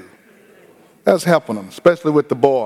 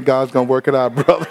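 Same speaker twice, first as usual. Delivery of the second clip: mock spiritual comfort; faster than usual. Shown as a demonstration. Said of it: "trying to be as spiritual as I can".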